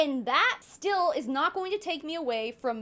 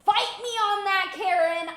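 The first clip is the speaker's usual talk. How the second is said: defiant challenge; 4 semitones higher, 4 dB louder, slower than usual. Real, not acted. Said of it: "challenge to viewers".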